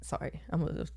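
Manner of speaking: breathless whisper; gasping, out of air; breath catch. Real, not acted. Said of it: "lost my breath".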